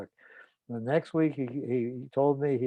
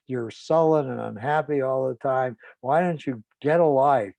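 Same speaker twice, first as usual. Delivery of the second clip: mildly raised voice of a nagging mother; screaming mother. Retold or imitated. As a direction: scold insistently, a retold tirade without real screaming. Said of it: "she had been screaming at her son".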